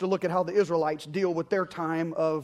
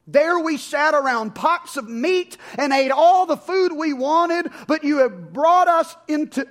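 high, louder grumbling whine; complaining Israelites; 5 semitones higher, 4 dB louder than usual. Acted. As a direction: moan like an ungrateful crowd.

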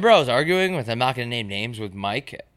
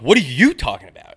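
louder indignant retort; 5 dB louder than usual. Retold or imitated. Arguing with Mike about nipples, retorting louder and incredulous. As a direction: punch it back louder, incredulous. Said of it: "And I'm like".

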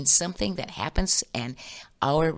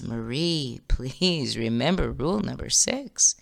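gentle reminder. Acted. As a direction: ease her down, barely voiced. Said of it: "gently says".

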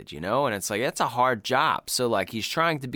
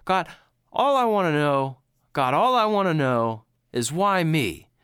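lightly acted, slightly raised lament; pleading to God; 4 semitones higher than usual. Job turns to God after all he's been through, mildly acted pleading. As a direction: build a mild mock plea to heaven. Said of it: "he turns to God after all of this".

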